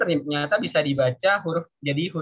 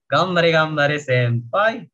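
louder, drawn-out cheer; anime cheer; 5 dB louder, slower than usual. Acted. Teacher imitates anime for learners, loud slow cheer. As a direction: cheer senpai on, slowly and loudly. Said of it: "banyak banget ya di anime".

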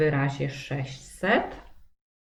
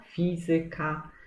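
"Fizyka" with FI stressed; stress on third-last syllable. Shown as a demonstration. Teacher naming school subjects as exceptions, "Fizyka" stressed on fi. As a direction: put the accent on the first syllable of "Fizyka". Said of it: "akcent może też padać na trzecią".

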